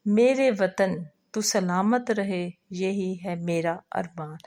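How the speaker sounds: lilting recital that ends almost whispered; verse recitation. Acted. Teacher reciting a patriotic song for the fourth member, fading to a hush. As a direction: build the lines, then soften the last one.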